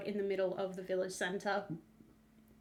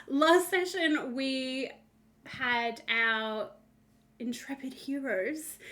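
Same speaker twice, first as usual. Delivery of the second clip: narrator voice; slower than usual. Shown as a demonstration. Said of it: "get my narrator voice on".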